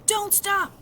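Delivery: high, urgent yell while running. A narrator's reading. Boy pulling Augie through the dark, yelling. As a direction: shout him onward, don't let him slow. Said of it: "would yell".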